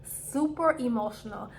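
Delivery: breathy whisper, slowed down. Real, not acted. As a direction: lean in and whisper it like a confession. Stressing how emotional she felt.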